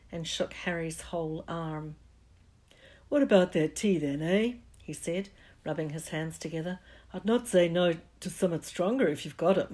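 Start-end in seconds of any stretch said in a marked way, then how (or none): 3.1-9.7 loud, jovial request; hearty giant. Acted. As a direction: rub your hands and ask. Giant asks for tea.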